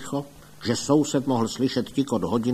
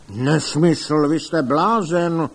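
loud, higher scoffing outburst; angry boom; 5 semitones higher, 5 dB louder, slower than usual. A narrator's reading. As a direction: shout him down as a madman. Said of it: "hučel pan doktor Link". (rozzlobeně hučí)

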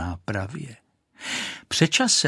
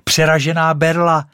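put-on excited boy's cry; 6 semitones higher, 6 dB louder than usual. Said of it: "vykřikl jeden ten klouček".

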